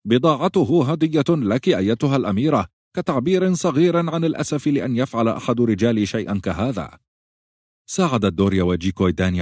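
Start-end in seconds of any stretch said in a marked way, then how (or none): 0.1-7.0 put-on higher, courtly old captain voice; bow and apologize smoothly; apologetic captain. A narrator's reading. Small captain apologizing to the princess, higher and courtly.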